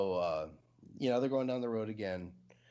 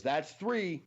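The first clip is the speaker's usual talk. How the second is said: higher, louder flat count; mock stern count; 8 semitones higher, 4 dB louder than usual. Amish man before shooting the horse, mild mock stern. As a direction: announce the number coldly. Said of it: "And the Amish man goes".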